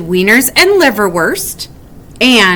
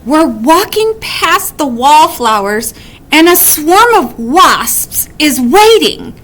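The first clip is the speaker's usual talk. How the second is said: worried; 3 semitones higher than usual. Acted. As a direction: build panic toward the last question. Wombat's worried what-ifs.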